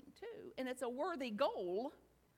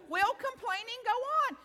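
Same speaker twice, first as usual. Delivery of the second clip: louder and higher call to the crowd; rallying question; 6 semitones higher, 8 dB louder than usual. Real, not acted. Speaker rallying the audience with a louder question. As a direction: pump up the room. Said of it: "Let's have it like a choir".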